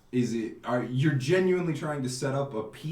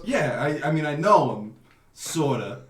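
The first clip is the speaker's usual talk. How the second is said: put-on Italian accent. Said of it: "I do one Italian accent".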